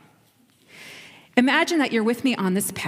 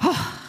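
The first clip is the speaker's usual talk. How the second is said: tired sigh; 8 semitones higher than usual. Pretend. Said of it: "I am out of breath".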